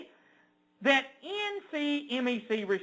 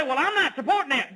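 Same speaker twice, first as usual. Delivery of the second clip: mocking quote; 3 semitones higher than usual. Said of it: "Because people say".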